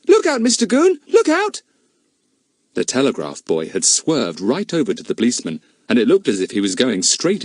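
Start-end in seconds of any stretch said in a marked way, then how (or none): 0.1-1.6 high, urgent call of alarm; warning shout. A narrator's reading. Boy warns Mister Goon of the swerving bicycle, urgent shout. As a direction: yell a warning at the policeman.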